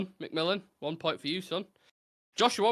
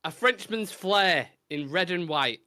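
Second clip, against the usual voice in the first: slow, measured recital; recited verse; 3 semitones higher, much slower than usual. Acted. Host opening the last rhyming clue, measured recital. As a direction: read it out like a line of poetry.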